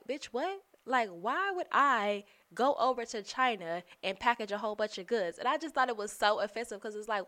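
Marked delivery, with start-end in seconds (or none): 0.1-5.4 incredulous. Retold or imitated. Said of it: "I'm just like".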